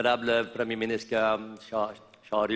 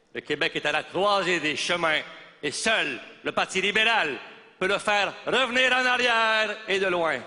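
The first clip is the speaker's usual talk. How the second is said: campaign slogan building higher in pitch; mock stump speech, pitch climbing to the climax; rousing political oratory; 4 semitones higher than usual. Politician rallying the room for the Parti libéral, rousing oratory.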